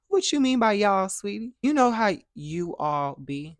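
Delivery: mock a Southern lady's sweet put-down; Southern girl voice. Cousin's Southern friend asks what y'all means, Southern drawl. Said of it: "she's a Southern girl".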